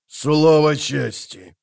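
slow drawn-out Слово чести; drawled. A narrator's reading. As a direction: stretch the words Слово чести lazily. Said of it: "протянул он". (протяжно, очень медленно)

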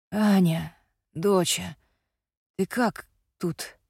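hoarse rasp. A narrator's reading. Injured father to his daughter, hoarse rasp. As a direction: rasp it out, hurt and weak. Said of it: "прохрипел мужчина".

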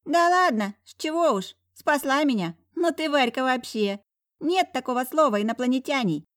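put-on high squeaky excited boy. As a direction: squeak it out with delight. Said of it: "пропищал восторженно Вовочка".

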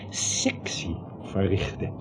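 gefluisterd. Acted. Dokter somt griezelig op.

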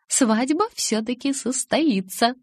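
slow, high pronouncement; drawn-out, pleased realisation; deliberate conclusion. A narrator's reading. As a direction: work it out aloud, stretching the words. Alice answers own question.

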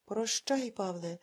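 ordinary delivery, nothing marked

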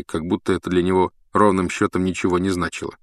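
usual speaking voice

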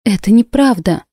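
a mild indignant cry; queen protesting the warrior's accusation indignantly; indignant exclaim. Acted. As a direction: protest with hurt outrage. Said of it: "возмущённо воскликнула я".

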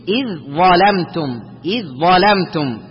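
slow "إذ ظلمتم", ذ absorbed into a doubled heavy ظ; ذ merged into ظ. Shown as a demonstration. Teacher demonstrates letters sharing one articulation point, ذ becomes ظ. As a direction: go from إ straight onto a held ظ in ظلمتم. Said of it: "الذال والظاء".

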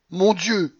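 high, loud exclamation; crying out. A narrator's reading. Grandmother exclaiming at her lost bet, crying out. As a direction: cry out in dismay. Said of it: "cria-t-elle".

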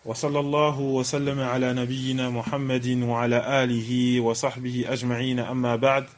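quick, low, even recitation; hushed, rapid formulaic praise at the start of a lesson; opening invocation. Acted. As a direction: recite a formal Arabic opening softly and fluidly.

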